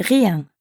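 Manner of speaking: Rien with a French R from the back of the throat; Rien, R rolled in the throat, nasal ien; uvular r. Shown as a demonstration. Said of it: "Notice how rien has the French R sound".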